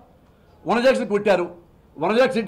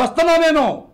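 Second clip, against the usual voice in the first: mock hero boast; 6 semitones higher, 3 dB louder than usual. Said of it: "statement ఇస్తావు".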